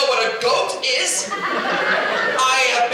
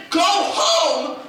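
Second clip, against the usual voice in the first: telling off; 9 semitones higher, much slower than usual. Retold or imitated. Manager ordering the kid home to change. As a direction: bark the instruction with exasperation. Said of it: "And I said".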